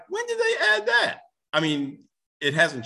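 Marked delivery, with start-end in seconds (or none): 0.1-1.2 high, startled question; surprised. Retold or imitated. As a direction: act out being caught off guard. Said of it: "And it was like".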